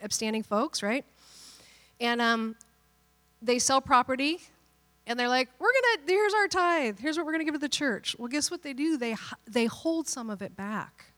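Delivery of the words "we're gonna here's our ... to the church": lightly acted, higher-pitched couple; a hint of showy generosity; eager church couple. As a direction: present it brightly, raised pitch. Acted couple proudly presenting tithe.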